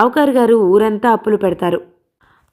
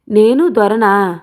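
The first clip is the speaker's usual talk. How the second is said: a mild mocking lilt, pitched up; 3 semitones higher than usual. Dawood taunting Balayya about his drinking, mildly mocking. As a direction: tease him with a sneer in the voice. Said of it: "అన్నాడు హేళనగా".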